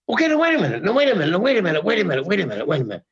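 mock indignation, repeated protests tumbling down in pitch, then rising; getting heated. Actor objects to wearing a mask, acting it out heatedly. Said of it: "Now I'm getting heated".

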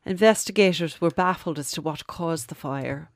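a light Irish lilt; lightly Irish storyteller; Irish accent. Acted. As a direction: tell it in a mild Irish accent. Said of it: "It's not a bad Irish accent".

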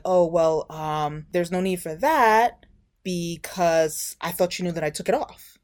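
hesitant mock stammer with filler and gaps; stammered excuse. Man caught out explaining himself to her, mock stammering. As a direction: stall over an awkward excuse, haltingly. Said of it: "this fool starts stuttering".

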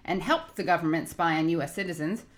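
upbeat sponsor read, steady and clear. Acted. Host reading a sponsor ad to listeners, upbeat ad read. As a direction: sell the phone plan like a radio spot.

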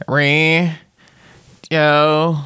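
high, strained drawn-out Southern call; Joe impression. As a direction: stretch each word up high like Joe. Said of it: "that's how Joe sounds".

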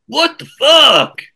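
high, slow exasperated outburst; incredulous. Real, not acted. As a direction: drag it out in disbelief.

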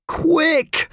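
high, loud urgent shout. A narrator's reading. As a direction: yell it as you run off. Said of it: "shouted Howard".

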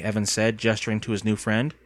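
ordinary delivery, nothing marked

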